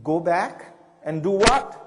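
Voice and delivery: eager visitor stunned by the advice; incredulous question. Retold or imitated. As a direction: push back in baffled surprise. Young woman baffled by answer.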